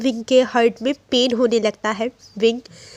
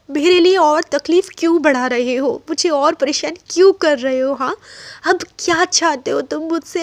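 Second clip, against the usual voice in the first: Wing, hurt and demanding, a bit higher; Wing's anguished outburst; 3 semitones higher than usual. Acted. Wing confronts the boy who keeps holding him, anguished. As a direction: push each why at him, half crying.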